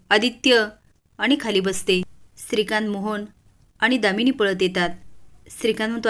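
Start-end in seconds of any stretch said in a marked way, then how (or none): 0.1-0.7 calling out loud. Acted. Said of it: "Ahilya मोठ्याने ओरडते".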